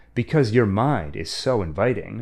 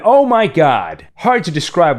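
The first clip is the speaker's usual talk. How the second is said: shocked; 5 semitones higher, 6 dB louder than usual. Real, not acted. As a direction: blurt it out in disbelief. Shocked reaction to scene.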